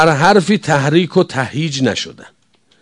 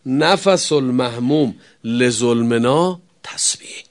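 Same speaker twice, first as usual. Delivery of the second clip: whispered hadith; 3 semitones lower, 7 dB quieter, slower than usual. Real, not acted. Hadith quoted in a hush.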